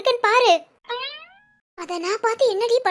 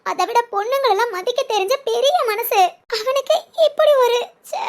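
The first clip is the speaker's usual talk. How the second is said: laughing through tears. Acted. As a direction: sob and giggle at once over a friend. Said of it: "கண்ணீரை விட்டுட்டே சிரிக்கிற". (கண்ணீருடன் சிரிப்பு)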